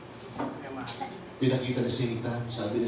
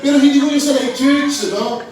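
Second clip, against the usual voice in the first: higher, louder, amused; laughing aside; 11 semitones higher, 11 dB louder than usual. Real, not acted. Preacher laughingly reassuring his church. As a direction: wave it off laughing. Laughing disclaimer after joke.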